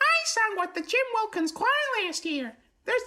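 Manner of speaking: very high cartoon-style voice. Reading a book character's line in a Ralph Wiggum voice. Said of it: "attempt a Ralph Wiggum".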